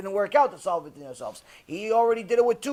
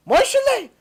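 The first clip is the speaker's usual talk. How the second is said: shrieked name, much higher and louder; 8 dB louder than usual. Retold or imitated. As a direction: scream the boy's name in sudden horror.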